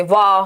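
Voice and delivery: वा held as one long syllable; one level, stretched वा; single syllable. Shown as a demonstration. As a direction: sound out वा alone, drawn out. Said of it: "एक ही बार syllable लगे".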